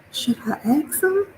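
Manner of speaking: high, hushed whisper; retold whisper. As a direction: whisper the question to yourself. Recognizing someone, speaking secretly.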